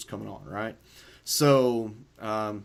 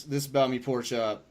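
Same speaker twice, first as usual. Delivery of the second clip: normal talking voice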